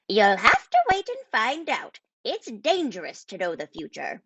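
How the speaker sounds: put-on the old wizard keeping his secrets; wise wizard. A narrator's reading. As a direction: Merlin telling the crowd to wait. Merlin's lines in the story.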